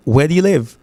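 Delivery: "Where do you live" as "weh-dyoo-liv"; run-together "Where do you live" using "dyoo"; other American accent. Shown as a demonstration. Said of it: "ou ka tande deux accents".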